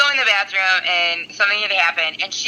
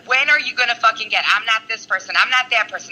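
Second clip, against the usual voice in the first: mildly raised, insistent voice; retold emotional rant. Telling her friend off in the bathroom, mildly heated. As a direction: hammer home I'm not this person. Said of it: "and I'm like".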